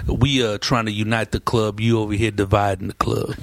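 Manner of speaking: deep-pitched, measured mock lecture; security guard. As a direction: imitate a club guard laying down the rules. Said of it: "remember that black security guard".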